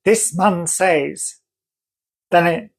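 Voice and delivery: slow, drawn-out retelling of her words; imitating her remark. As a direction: stretch each word, quoting the woman. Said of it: "she said to that child".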